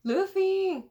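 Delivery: high, loud shout of a name; acted high yell; calling out. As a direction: holler it, stretching the end. Voices a character calling Luffy.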